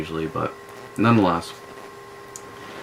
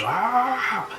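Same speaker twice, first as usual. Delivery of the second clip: fierce yell. Retold or imitated. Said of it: "you won't get to a fierce".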